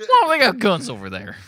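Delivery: very high, loud mock hick; dumb American yokel. Bragging about the tea in the ocean, mock yokel voice. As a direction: boast like a hammed-up dim patriot.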